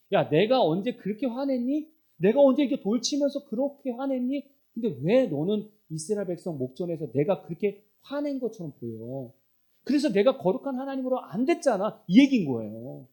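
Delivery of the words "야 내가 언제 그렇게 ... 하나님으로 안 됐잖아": higher-pitched acted rebuke, mildly angry; God. Preacher as God reproaching Moses, mildly angry. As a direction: play an indignant scolding with rising pitch. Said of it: "그래서 하나님이 화가 나시는 거예요".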